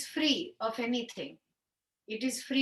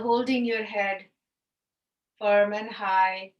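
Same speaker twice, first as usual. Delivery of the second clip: guided meditation. Acted. Yoga teacher settling students into seated breathing, guided meditation.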